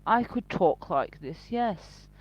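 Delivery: lightly mocked posh English accent; mock Queen's English, carefully pronounced; put-on posh accent. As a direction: imitate someone faking a posh accent. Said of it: "put on that posh accent".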